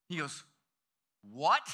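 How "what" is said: shocked. Retold or imitated. Child shocked at friend's doubt.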